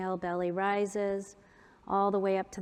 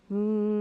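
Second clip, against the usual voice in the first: hum. Shown as a demonstration. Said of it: "a hum where I plug my ears".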